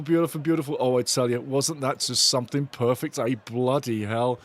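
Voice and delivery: ordinary delivery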